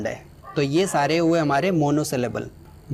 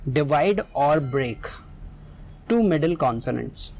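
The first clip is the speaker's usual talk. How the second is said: very slow, word by word, x0.4; slow dictation; much slower than usual. Shown as a demonstration. Teacher to students, dictating the rule slowly. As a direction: spell out the rule slowly for the class.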